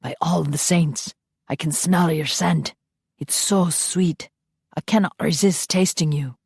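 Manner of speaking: a lightly voiced Highland lover, savouring each word; Scottish vampire voice. Ian's lines in romance story.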